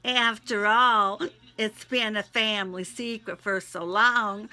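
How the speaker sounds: pleading, prayerful read; heartfelt prayer. Acted. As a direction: pour it out to God in prayer. Spoken prayer to God.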